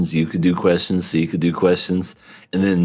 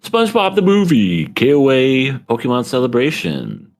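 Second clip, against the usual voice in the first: excited; 6 semitones higher than usual. Real, not acted. Hyping Patreon content.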